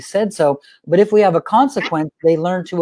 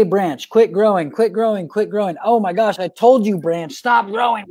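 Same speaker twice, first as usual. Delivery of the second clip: mock exasperated parent yelling at a branch; mounting mock nagging. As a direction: nag it over and over until you snap. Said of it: "And we're like".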